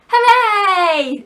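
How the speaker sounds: loud, high hooray; joyful cheer. Acted. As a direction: boys jumping with joy. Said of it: "shouted the boys".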